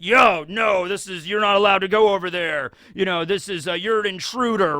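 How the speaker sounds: bossy Marine guard. Retold or imitated. Marine guard stopping the girl, mild mock sternness. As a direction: lightly play the Marine turning her away.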